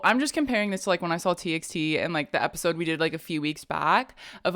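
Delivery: ordinary delivery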